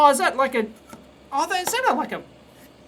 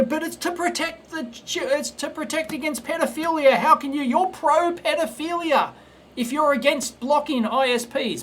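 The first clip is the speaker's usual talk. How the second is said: higher, parody of a moralizing censor; a hammed-up pearl-clutching censor, higher pitched; mock pro-censorship voice; 5 semitones higher than usual. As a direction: pitch up and sneer the other side's argument. Mocking the pro-censorship argument.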